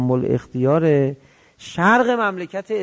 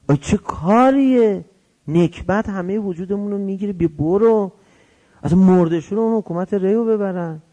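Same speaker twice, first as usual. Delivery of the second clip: exasperated mock scolding, pitched up; scolding dismissal; 4 semitones higher than usual. Son tells his father to drop it, scolding. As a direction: act out a son's disgusted protest.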